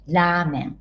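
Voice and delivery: "Ramen" with a drawn-out first a; "Ramen" said as "raamen"; long vowel. Shown as a demonstration. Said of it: "long vowel です".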